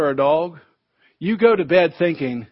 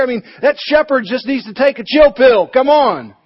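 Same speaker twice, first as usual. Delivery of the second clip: a put-upon sheep griping about the shepherd; indignant sheep; 4 semitones higher than usual. Acted.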